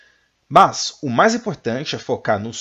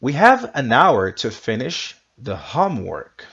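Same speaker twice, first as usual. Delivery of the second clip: louder, clear teacher read; model sentence; 5 dB louder than usual. Shown as a demonstration. Teacher modelling sentence for students to repeat. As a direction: lead the class through the sentence. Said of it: "you repeat after me".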